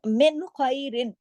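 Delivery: मिन खैरिन with a clear न before a throaty ख; clear noon. Shown as a demonstration. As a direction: say मिन cleanly then ख from the throat. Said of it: "कोई इख्फा नहीं हो रहा".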